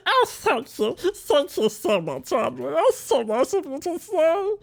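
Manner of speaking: high, slow, sugary thank-you voice; squeaky thank you. Pretend. Thanking a viewer for the compliment in a high put-on voice. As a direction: gush thanks in a tiny high voice.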